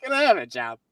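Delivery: whiny movie-brother plea; imitating Paulie. Host imitating Paulie asking Rocky for work, mock whine. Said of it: "Paulie could be the worst brother".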